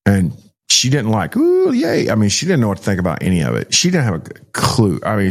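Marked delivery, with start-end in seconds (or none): 1.4-2.1 high squeaky mock delight, clearly not meant; mock cheer. Pastor mocking a cheer the girl never gave. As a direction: toss off a fake little yay as a joke. Mock reaction she didn't have.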